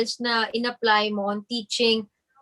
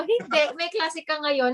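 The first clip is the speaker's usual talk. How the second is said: higher-pitched mock parental scolding; retold scolding; 5 semitones higher, 4 dB quieter than usual. Parent refusing to let the child skip class, mock scolding. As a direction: imitate a parent lightly telling off a child. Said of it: "pinapagalitan ako".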